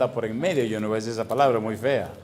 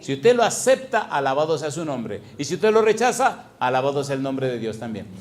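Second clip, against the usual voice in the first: rising preaching. Acted. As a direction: push it up to the climax.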